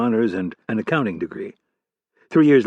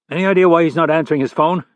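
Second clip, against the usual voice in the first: higher, louder, commanding FBI chief; stern boss voice; 6 semitones higher, 5 dB louder than usual. Acted. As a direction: bark it like an irate boss. Hargrave voice again.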